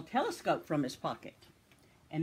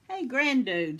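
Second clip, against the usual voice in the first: loud hailing call; 6 semitones higher, 7 dB louder than usual. A narrator's reading. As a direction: call to get his attention. Calling out.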